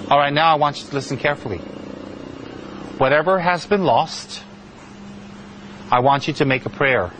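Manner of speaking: measured teacher's instruction with long pauses; very serious. Retold or imitated. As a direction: imitate a master gravely instructing a student. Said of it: "he was very serious".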